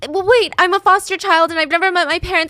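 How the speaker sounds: high, urgent acted plea; desperate victim's appeal, voice pushed up; begging. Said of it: "she's begging for all of this to stop".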